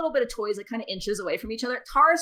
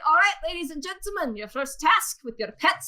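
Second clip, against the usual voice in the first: lightly voiced fairground announcer, pitched up at first; contest announcer; 5 semitones higher than usual. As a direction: lightly imitate an MC opening a contest. Game master voices the contest announcer.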